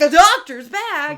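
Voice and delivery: loud, slow alarmed exclaim; sudden panic at what you see; mock shocked cry; alarmed discovery. Spotting the doctor's bag.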